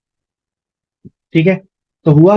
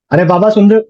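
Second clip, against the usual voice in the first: mock shout; 3 semitones higher, 4 dB louder than usual. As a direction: imitate the impatient yell. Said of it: "चिल्लाया". (चिल्लाकर नकल करना)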